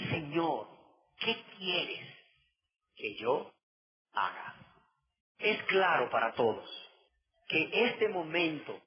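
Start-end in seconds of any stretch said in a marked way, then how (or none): 0.1-4.5 soft, fading question, a hint of fear; trembling and fearful. A hint of fear as the preacher re-reads Saul's question. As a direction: let the question shrink away quietly. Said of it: "Temblando y temeroso dijo".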